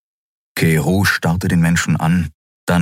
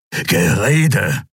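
hissed; 4 semitones higher than usual. A narrator's reading. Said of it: "fauchte Keru".

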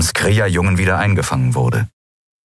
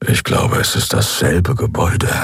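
hushed, half-whispered aside; a prisoner murmurs to his cellmate, hushed; low quiet murmur. Acted. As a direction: murmur it so the guard won't hear. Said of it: "brummte Keru leise".

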